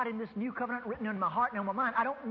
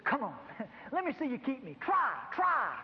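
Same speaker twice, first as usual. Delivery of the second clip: laughing dare, climbing higher on try; mocking taunt; 4 semitones higher than usual. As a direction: tease him with a chuckle, goading. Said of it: "the law starts taunting me".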